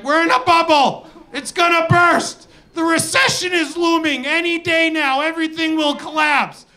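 high, frantic doom-warning pundit voice; panicky market pundits. Retold or imitated. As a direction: cry doom like a nervous analyst on TV. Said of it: "And they're like".

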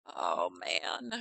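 whisper. Real, not acted. Muttered reaction while playing.

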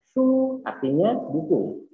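high, slow teaching voice. Shown as a demonstration. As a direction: announce the new word clearly to the class. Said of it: "teacher models new word".

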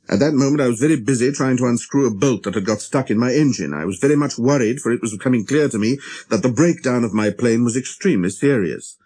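plain reading voice

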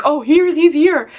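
high, singsong doctor impression; drawn-out high exclamation, put-on voice; surprised discovery. Retold doctor discovering baby is crowning.

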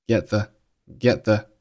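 "get the" with weak "the"; unreleased t in "get". Shown as a demonstration. Teacher demonstrating "get the" with t unexploded. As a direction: hold back the t of "get" before "the". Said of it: "Get结尾的t失去爆破".

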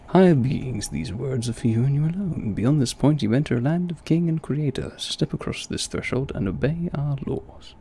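theatrical British proclamation; over-the-top British voice. Acted. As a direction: read the decree aloud in hammed-up British. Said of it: "over the top British voice".

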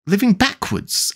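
slow, high, incredulous question; great astonishment. A narrator's reading. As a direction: echo it in amazement, drawn out. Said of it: "Alice repeated in great astonishment".

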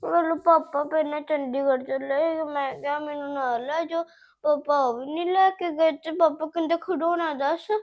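loud, whiny crying to grandma; put-on sobbing complaint, pushed loud; tearful complaint. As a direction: wail out your grievance like a let-down child. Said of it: "ਤੂੰ ਰੋ ਨਾ ਪੁੱਤ".

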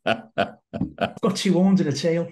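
slow, heavy Scottish delivery; a slow Scottish growl of a joke; thick Scottish accent. Real, not acted. Scottish guest jokes about his devilish side in his accent. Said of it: "for those of you who didn't understand him".

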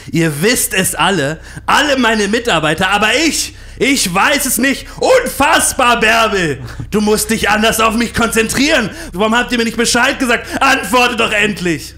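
high, loud tantrum building up; tobender Regisseur. Retold or imitated. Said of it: "er flippt da komplett aus". (laut tobend und schreiend)

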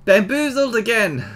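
loud, high cry of being fooled; mock outrage. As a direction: exclaim it big, as playful protest. Tricked again by a game door.

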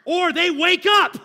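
loud high laughing punchline; laughing exasperation. Real, not acted. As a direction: burst out laughing on it.

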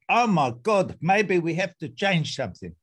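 put-on a light South African accent, mildly surprised. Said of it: "Excuse my South African accent".

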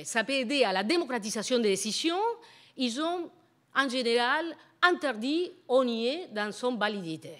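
French spoken with a foreign accent; non-native French, a foreign accent throughout. Real, not acted. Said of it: "mon français n'est pas très bien aujourd'hui". (français avec un accent étranger)

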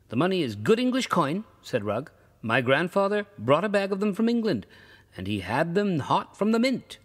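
a hint of Rugg bragging about his coin; Rugg's proud boast. Old traveler to the ferryman, a lightly voiced proud boast.

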